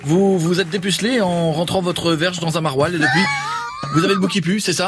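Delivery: Jean-Luc Delarue. Acted. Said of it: "Jean-Luc".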